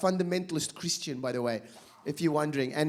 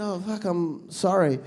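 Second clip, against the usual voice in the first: mock apology, laughing; 4 dB louder than usual. Comedian mocking the preachers, laughing through fake apology. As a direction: crack up while pretending to be sorry. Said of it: "I said".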